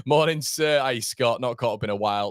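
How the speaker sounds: excited greeting. Real, not acted. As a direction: call out a hearty welcome. Greeting viewers in live chat.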